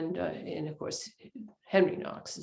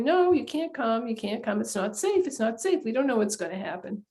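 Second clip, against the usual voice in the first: insistent husband; 3 semitones higher than usual. Retold or imitated. Henry refusing to let his wife come, mild insistence. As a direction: hold her back, gently insistent. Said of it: "And he keeps saying".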